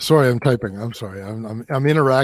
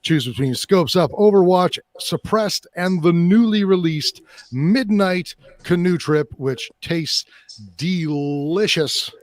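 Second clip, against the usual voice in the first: light mock Canadian accent with eh; hammed-up Canadian ad read; 2 semitones higher than usual. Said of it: "we'll just do a, a Canadian".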